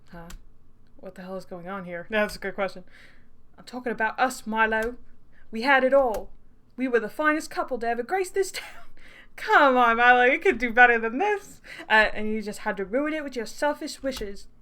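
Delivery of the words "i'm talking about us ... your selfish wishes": wronged lover in a bad British accent; theatrical, dodgy British accent. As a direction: plead indignantly in a fake British accent. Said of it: "he's gonna have a British accent".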